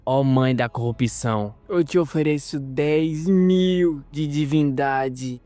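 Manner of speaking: priest offering divinity to his goddess, slow; praying. Acted. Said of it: "ele começa a rezar".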